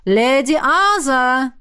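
медленно, протяжно и настойчиво; упорно звать через дверь; настойчивый зов. Acted. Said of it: "Настойчиво повторили". (гость настойчиво зовёт леди Азу из-за двери)

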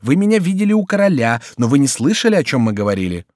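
high start, settling as the question ends; insistent Chicot. Acted. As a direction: press the point as an impatient Chicot.

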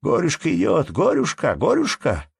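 put-on high, loud children's jeering cry; children shouting together. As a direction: call it out like a pack of village kids. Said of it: "все в один голос принялись кричать".

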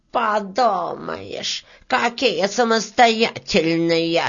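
slow, mildly squeaked sneer; squeaking beetle. Acted. Beetle sneers at the striking workers, squeaking. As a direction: drag it out with mock scorn. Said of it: "пропищала жужелица".

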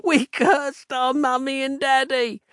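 put-on high, tearful child's voice, pleading; a desperate child begging through tears; crying in despair. A narrator's reading. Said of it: "the boy cried out in despair".

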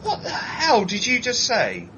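slow, high, incredulous mock cry; baffled reaction. Recalling his reaction to the Brummie accent, mock baffled. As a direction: act stunned by what you just heard. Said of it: "I was just like".

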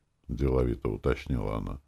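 plain reading voice

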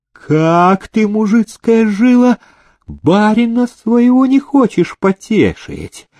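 high, slow indignant outburst; narrator's acted angry bellow; enraged master's roar. A narrator's reading. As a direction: rage at a serf, pitched high and drawn out. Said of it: "Побагровел Демидов и заорал".

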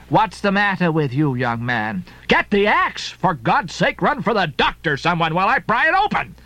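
a hint of a sharp landlady; lightly voiced bustling landlady. Mrs Hussey confronting Ishmael, lightly voiced landlady.

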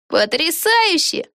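slow, high drawn-out delight; Peggy hopping with joy; joyful. A narrator's reading. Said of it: "Пегги радостно запрыгала". (медленно и радостно)

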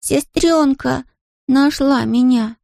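put-on high, slow small-child voice with a Scottish lilt; a toddler sure of himself, slowly; lightly Scottish young boy, proud and certain; confident little boy. A narrator's reading. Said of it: "заговорил Харри так уверенно".

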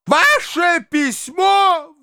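very high, slow shriek. A narrator's reading. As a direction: shriek the words out in outrage. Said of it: "взвизгнул Фома".

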